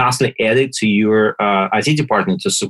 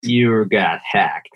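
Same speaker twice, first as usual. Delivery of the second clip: slow whispered You got hacked with a heavy Russian accent; exaggerated Russian accent; 3 semitones lower, much slower than usual. Shown as a demonstration. Host asks for his most exaggerated Russian accent, slow whispered. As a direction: breathe it out slowly, thick Russian accent. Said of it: "with your most exaggerated Russian accent".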